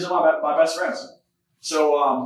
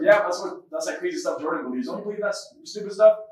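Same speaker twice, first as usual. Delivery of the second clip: raised-pitch scoffing imitation; mocking; 3 semitones higher than usual. Classmate ridiculing Jordan's beliefs before class, mocking. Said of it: "Like, mocking it hardcore".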